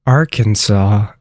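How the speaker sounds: Arkansas said slowly, ending in "saw"; correct pronunciation. Shown as a demonstration. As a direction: model Arkansas slowly with a silent final s. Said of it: "teaching you how to pronounce".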